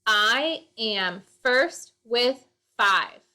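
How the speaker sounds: slow, each syllable spaced out; slow syllable count. Shown as a demonstration. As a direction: count the beats slowly as you say it. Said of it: "check on this poem".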